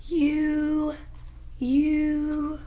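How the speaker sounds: held "you", steady pitch; long U demo. Shown as a demonstration. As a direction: model a rounded "you". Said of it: "feel that it's high in your mouth".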